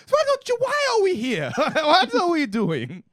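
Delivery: mock grandpa asking why we're here; confused grandpa. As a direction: play a baffled old man at a wedding. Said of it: "And he's like".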